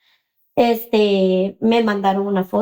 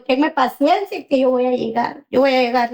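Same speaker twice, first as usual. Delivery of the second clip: slightly raised, earnest promise; retold reassurance; 4 semitones higher than usual. Mother promising crying daughter she will come, reassuring. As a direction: re-enact a parent soothing a child.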